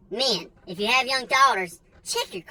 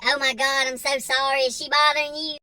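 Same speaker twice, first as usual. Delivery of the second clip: higher-pitched flustered mother apologizing; worried mom; 5 semitones higher than usual. Retold or imitated. Mother apologizing to the stranger, flustered and high. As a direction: play the frantic mom who just found her kid. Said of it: "she's like".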